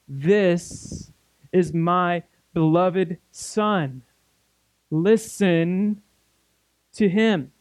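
slow, measured voice of God, lightly acted; God the Father's voice. God speaking from the cloud to the disciples, lightly solemn divine voice. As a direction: proclaim it slowly with weighty pauses between phrases. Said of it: "This is God the Father's voice".

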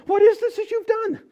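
high, loud demanding question; God demanding an answer; stern God. Acted. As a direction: confront her sharply. God confronts the woman.

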